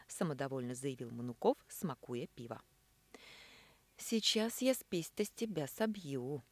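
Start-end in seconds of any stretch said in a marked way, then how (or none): 4.0-6.4 vengeful thought. A narrator's reading. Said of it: "мстительно подумала Элина".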